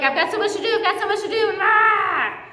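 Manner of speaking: preacher imitating her own to-do-list stress, building panic. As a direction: spiral up into mock overwhelm. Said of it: "I get so, like".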